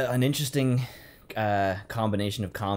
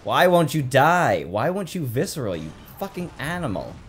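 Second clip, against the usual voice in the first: mock-exasperated rant; 5 semitones higher, 4 dB louder than usual. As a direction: plead furiously with the enemy, hammed up. Ranting at game enemy.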